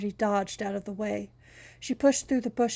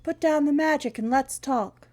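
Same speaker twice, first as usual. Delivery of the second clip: calling out; 5 semitones higher, 5 dB louder than usual. Acted. Shouting to woman inside house.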